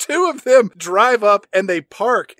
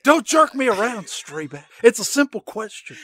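mock-serious interrogation voice; funny voice. Cohost grills Streebek about hot dogs in a mock tough-guy voice. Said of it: "saying chili dog in that voice".

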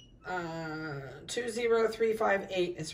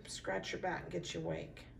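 soft whisper while scratching; 8 dB quieter than usual. Real, not acted. Breeder whispering to a puppy while scratching his back, whisper. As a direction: breathe it to the pup.

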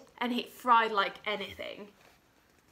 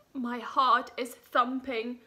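scared cook; 3 dB louder than usual. Acted. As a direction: squeak it out like a terrified little cook.

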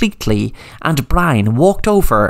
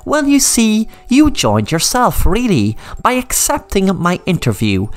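higher, sing-song villain taunting his captives; gloating villain; 4 semitones higher than usual. Acted. Brian gloats to Sam, mildly menacing. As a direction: savour every word of the trap.

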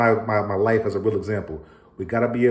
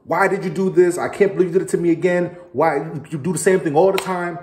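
high, loud, blaming rant at the spouse; accusing outburst; 7 semitones higher, 3 dB louder than usual. Shown as a demonstration. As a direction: fire accusations at your wife. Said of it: "So it's not".

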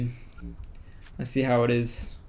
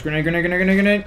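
grenade warning yell; 4 semitones higher, 6 dB louder, much faster than usual. Real, not acted. Warning team of incoming grenade.

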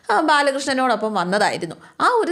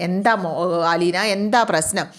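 lower, gently voiced husband; calm older man; 3 semitones lower than usual. Husband voiced questioning the maid.

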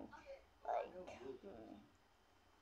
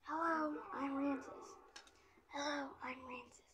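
put-on soft, raised boy character voice; lightly put-on boy voice, quiet; 4 semitones higher, 4 dB quieter than usual. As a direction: introduce yourself softly as a toy boy. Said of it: "This is another boy".

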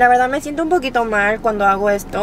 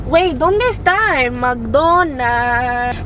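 put-on Italian-sounding accent; much slower than usual. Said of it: "mi acento se vuelve muy italiano".

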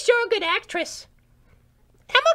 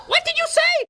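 higher, pushy tough-guy threat; menacing challenge; 5 semitones higher than usual. Acted. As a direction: square up to the crew guy. Threatening crew member.

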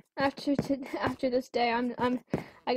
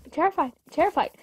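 terrified; 3 semitones higher, 4 dB louder, faster than usual. Real, not acted.

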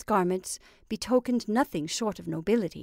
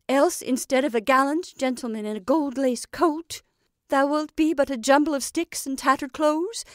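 doting witch; 3 semitones higher, 6 dB louder than usual. Acted. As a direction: coax and instruct like a proud crone. Witch addressing her creation.

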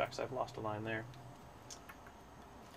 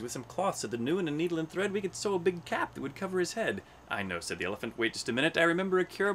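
animated read-aloud, quotes often pitched higher; story narration; 7 semitones higher, 3 dB louder than usual. A narrator's reading. Animals suggest cures for Hubert, animated story narration. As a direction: lightly voice each animal in bouncy rhyme. Reads animal dialogue in rhyme.

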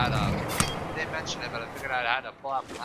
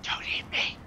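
pleading whisper. Acted. Pleading with a fish.

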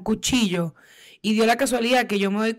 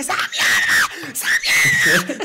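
slow, low, snarling shout; a slow, furious roar at the friend who spat; reenacted angry shout; 6 semitones lower, 5 dB louder, slower than usual. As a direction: growl it out, dragging each word.

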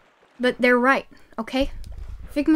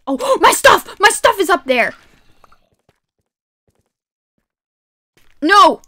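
alarmed gasp; 6 semitones higher, 7 dB louder than usual. Real, not acted. Sees her dropped items.

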